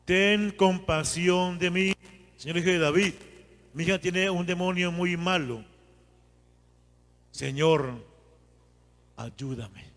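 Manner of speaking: súplica fervorosa y lenta, que acaba en un ayúdame suave; oración de súplica. Shown as a demonstration. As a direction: reza la súplica con fervor y termina bajito. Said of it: "vamos a juntarla". (el predicador enseña la oración, súplica fervorosa)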